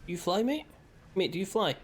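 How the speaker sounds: high, incredulous little questions; playful questioning. Pretend. Player asking a fish if it flies, playful. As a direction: quiz it in a lifted, playful voice.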